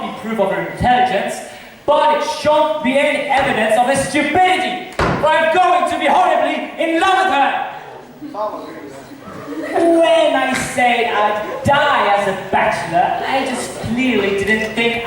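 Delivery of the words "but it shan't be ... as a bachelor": excited vow. Acted. Benedick resolving to love her.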